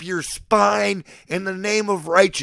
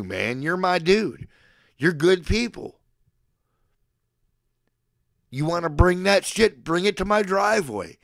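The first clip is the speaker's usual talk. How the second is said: usual speaking voice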